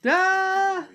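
high, drawn-out mock cry; mock scream. Mimics a scream at the film.

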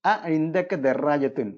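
each word dictated slowly with അ weighted; slow it down for the students; careful classroom model; slow model sentence. Shown as a demonstration. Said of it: "ഇൻദക എന്ന വാക്ക് ഉപയോഗിക്കുന്നു".

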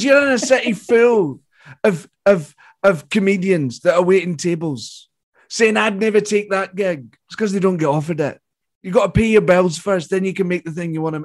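lightly imitated veteran comedian giving advice; Billy Connolly. Famous comedian giving pep talk to a younger comic, lightly imitated. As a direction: hand down advice with a hint of his voice. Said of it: "He goes".

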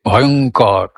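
ভয়ঙ্কর with কর made by lips and tongue alone. Shown as a demonstration. Teacher tests the last syllable for students, lip-tongue কর only. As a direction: keep the belly voice out of the কর in ভয়ঙ্কর. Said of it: "এরম হচ্ছিল, কিরম হচ্ছিল?".

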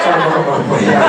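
slow, drawn-out pestering ask; slow creepy question. Retold or imitated. Sponsor on the phone slowly pestering the manager. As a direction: stretch it out like a pest.

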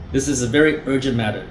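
fast, firm urgent claim; brisk urgent line. Shown as a demonstration. Salesman repeating the key opener, quick and firm. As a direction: say it quick like it's no big deal. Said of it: "I will start with that".

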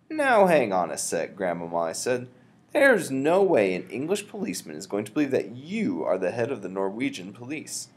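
lightly voiced doubtful boy; young boy. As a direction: challenge grandmother in disbelief.

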